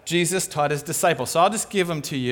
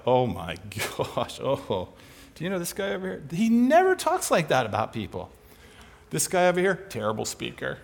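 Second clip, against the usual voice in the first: mock gossipy put-down; 2 semitones lower, 4 dB quieter than usual. Preacher mimics disciples gossiping, as a hushed, catty mock aside. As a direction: play a snide whisperer knocking someone down, lightly done. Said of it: "Jesus doesn't talk about people like that".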